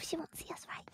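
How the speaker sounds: near-whisper, very soft; barely audible, secretive warning; hushed while hiding. Real, not acted. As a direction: whisper so she won't find us. Hiding from in-game threat.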